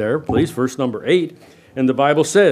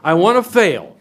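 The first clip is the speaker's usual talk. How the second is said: mock would-be failure; 3 semitones higher, 4 dB louder than usual. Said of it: "put your hand up this morning and say".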